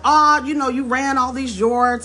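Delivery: gushing about his football record; excited fan. Retold or imitated. Grandfather gushes about Jim's yards, eager and high.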